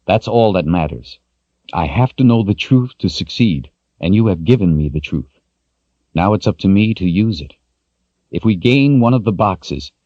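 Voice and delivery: lightly voiced, firm and resolved; calm determined young man.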